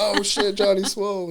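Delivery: excited group call-out; crowd cheering. Retold or imitated. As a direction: shout it like a whole team joining in. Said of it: "And everybody's like".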